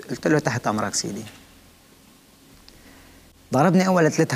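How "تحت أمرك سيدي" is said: retold low, soft compliance; submissive reply. Prisoner obeying the officer who orders a beating, submissive. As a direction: answer softly, voice dropped in submission.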